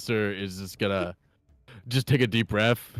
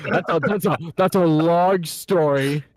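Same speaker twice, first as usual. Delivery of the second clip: awkward stalling; 7 semitones higher, 6 dB louder than usual. Acted.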